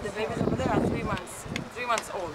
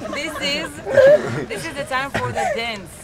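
laughing; 13 semitones higher than usual. Real, not acted. Ibex mating explained.

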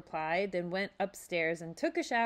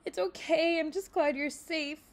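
relieved; 10 semitones higher, 4 dB louder than usual. A narrator's reading. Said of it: "wiping the tears from her eyes".

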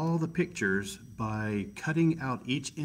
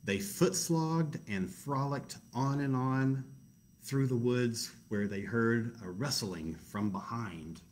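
story narration; slower than usual. A narrator's reading.

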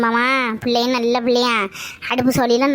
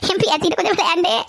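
words through an amused chuckle; laughing; 3 semitones higher than usual. Acted. Grandmother explains she was playing with granddaughter, laughing. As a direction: chuckle while owning up.

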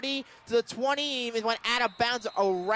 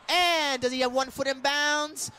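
touchdown shout; 6 semitones higher than usual. Real, not acted. Announcer shouting a Stony Brook touchdown to the radio audience. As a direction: belt out the home team's touchdown. Touchdown call for home team.

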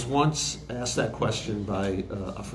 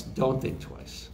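"don't think twice" whispered slowly and softer; whispered second voice; 5 dB quieter, slower than usual. Retold or imitated. Engineer quoting the whispered second voice of the song line, slow whisper. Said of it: "It's that contrasting of that".

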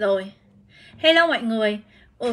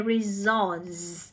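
resource stressed on SOURCE; re-SOURCE, teacher's citation form; second-syllable stress; 3 semitones lower, 6 dB quieter than usual. Shown as a demonstration. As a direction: model "resource" softly with the weight on "source". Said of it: "nhấn vào âm số hai".

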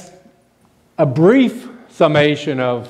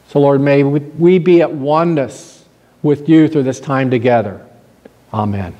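lowered voice, settling down to the amen; prayer; 2 semitones lower than usual. Real, not acted. Preacher praying for the group gathered to worship, lowered prayerful voice. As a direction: address God earnestly, sinking at phrase ends.

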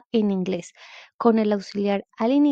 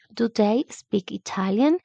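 slowed down with a rising question tune; slow model question; slower than usual. Shown as a demonstration. Teacher repeats the question slowly for students. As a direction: spell out each word for learners. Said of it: "la entonación de pregunta".

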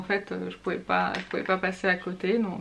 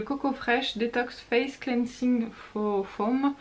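slow English with a French accent; careful French-accented English product name; 2 semitones higher, slower than usual. Real, not acted. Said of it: "Toujours magnifique cet accent anglais".

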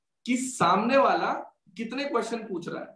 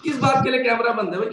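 inner exasperation; 3 semitones higher than usual. Retold or imitated. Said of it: "अंदर तो मेरे यही थी सारी बातें".

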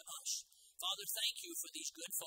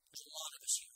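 eerie demon whisper. Acted. Voicing the demons' answer.

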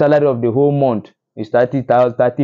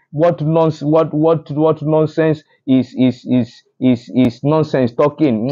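vexed; 2 semitones higher, slower than usual. Real, not acted. Vlogger irked by government blaming the past, vexed. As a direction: stumble over the words in real irritation. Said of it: "the thing dey vex me".

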